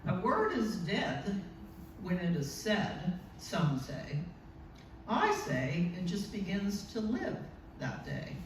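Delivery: slow, measured reading of a poem; slow poetry reading; poem recital. Shown as a demonstration. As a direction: recite each line slowly, letting it land. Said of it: "Emily Dickinson wrote that".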